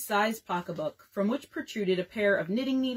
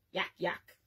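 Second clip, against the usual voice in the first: mock laugh; 3 semitones lower, 7 dB quieter than usual. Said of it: "in spasms of mirth".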